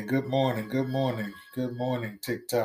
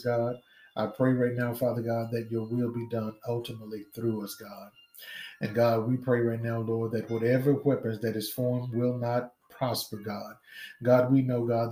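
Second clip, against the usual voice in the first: steady fervent prayer cadence. Real, not acted. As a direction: pray aloud over the congregation. Leads an opening prayer.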